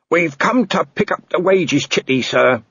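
dutiful junior reporting to his boss; earnest constable. Acted. Constable Shu voiced in story.

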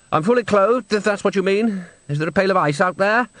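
high, lofty and impatient; Salzella voice. A narrator's reading. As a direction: sniff it out, superior. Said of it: "said Salzella".

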